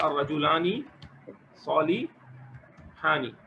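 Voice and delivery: सालिहानि said very slowly with long -aani; slow model reading. Shown as a demonstration. Teacher models the correct dual ending, very slowly. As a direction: stretch the ending for the student to copy. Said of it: "इस तरह होगी मिसाल".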